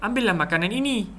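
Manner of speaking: high-pitched, inviting offer; demonstrated "here, take it"; offering something. Shown as a demonstration. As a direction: call someone and hand it over. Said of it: "intonasi dia adalah kita nak memberikan sesuatu".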